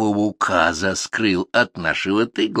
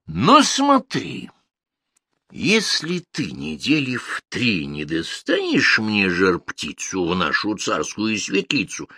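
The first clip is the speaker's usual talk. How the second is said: threatening tsar; 8 semitones higher than usual. Acted. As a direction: threaten the servant with the stake.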